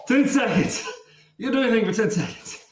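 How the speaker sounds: laughing through the strain. Real, not acted. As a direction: laugh while pushing.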